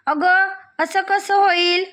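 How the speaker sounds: slow, high puzzled mother; mother can't believe the tin is empty; surprised mother. Acted. Mother wondering aloud at the empty tin, slow and puzzled.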